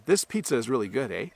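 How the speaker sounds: statement turned into a question by final "eh". Shown as a demonstration. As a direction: end on "eh" as a question, inviting agreement. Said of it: "put a at the end with a question mark".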